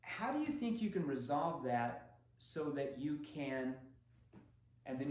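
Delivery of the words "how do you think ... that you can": gentle empathetic salesman; understanding tone. Shown as a demonstration. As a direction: soothe the concern before asking. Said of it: "You're gonna say this".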